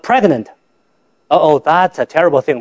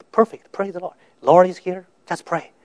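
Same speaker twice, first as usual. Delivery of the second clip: barely audible, softer and fading; faint weak voice; 6 dB quieter than usual. Retold or imitated. Sick pregnant wife reassuring her husband, very faint. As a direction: answer as if almost too weak to speak.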